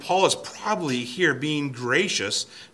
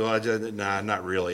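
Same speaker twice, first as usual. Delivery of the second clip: casual shrug; 3 semitones lower than usual. Shown as a demonstration. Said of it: "it's not just simply".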